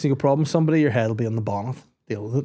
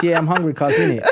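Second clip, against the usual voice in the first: put-on higher, louder London street accent; mimicked Top Boy accent; 5 semitones higher, 5 dB louder than usual. Telling partner he wants food, mimicked street accent. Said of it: "in that accent".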